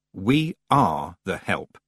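slow and plain; calm, matter-of-fact; simply. Acted. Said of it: "said Tiffany simply".

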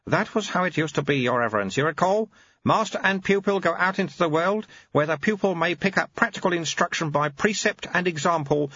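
put-on wry, patient old teacher; old monk Lutze. Lutze recalls old ways.

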